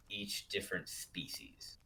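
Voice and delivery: dropped to a whisper. Real, not acted. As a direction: breathe the words out. Aside while describing creatures.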